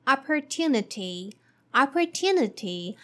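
opportunity as ah-per-TOO-nuh-tee. Shown as a demonstration. Teacher modeling opportunity for learners. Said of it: "the fourth word".

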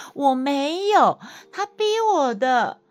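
high, slow, outraged insistence; indignant protest. Real, not acted. Wife telling viewers the husband forced her, high and slow. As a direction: stretch it out, wronged and fuming.

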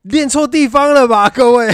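high, loud laughing question. Real, not acted. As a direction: laugh it out to the listeners. Laughing at training the wrong muscle.

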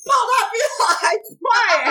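astonished. Real, not acted. Shocked at fake beggar running.

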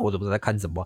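ordinary talk

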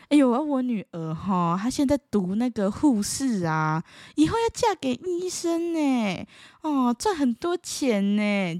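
slow, lightly voiced boastful auntie; a hint of a smug mother showing off; bragging relative. Relative brags that her nurse daughter will marry a doctor, mild smug voice.

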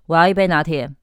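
flat, demanding order; curt demand for a latte; blunt order. Shown as a demonstration. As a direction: say it like a blunt command. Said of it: "是不是两个语气差很多".

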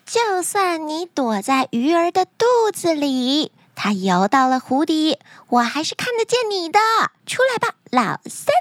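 high taunting princess voice; arrogant princess. Acted. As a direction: call out the hider, lofty and high.

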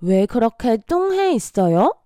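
concerned, questioning friend; with feeling. Acted. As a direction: ask as if worried about a gloomy friend. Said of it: "让我们带入感情".

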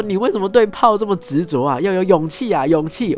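high, loud frustrated shout; exasperated yell. Retold or imitated. Master shouts at the student obsessed with cannons, loud and exasperated. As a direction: yell it, fed up with his fixation on cannons.

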